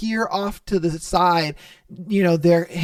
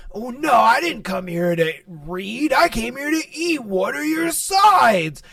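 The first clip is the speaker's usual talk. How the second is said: mock rude customer; 3 semitones higher than usual. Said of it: "He's over here".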